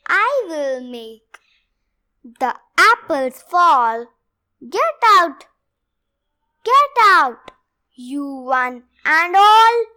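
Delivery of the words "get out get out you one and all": loud, angry chasing yell; shouting get out. Acted. Reading the storybook, the character yells them all away.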